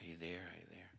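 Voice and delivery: unvoiced, hushed check on a silent line; hushed whisper. Husband whispering into the phone to his silent wife, hushed and unsure. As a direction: breathe it softly into the phone, unsure anyone is there.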